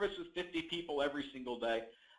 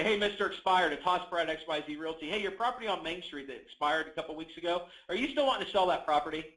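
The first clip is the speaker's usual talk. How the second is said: direct tone. Shown as a demonstration. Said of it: "You hear the tonality".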